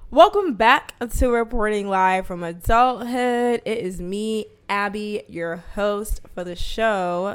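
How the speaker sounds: slow, bright show-host welcome; podcast host intro. Acted. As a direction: greet listeners like a host. Opens her show as host.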